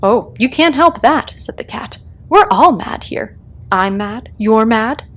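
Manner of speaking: cat declaring everyone mad, loud and gleeful. Acted. The Cat tells Alice all are mad, loud gleeful relish. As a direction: relish the madness.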